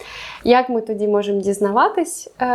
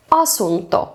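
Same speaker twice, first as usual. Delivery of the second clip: асунто, accented on its first syllable; first-syllable stress. Shown as a demonstration. Teacher giving an example of Finnish stress, асунто stressed at the start. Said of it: "він завжди на перший склад".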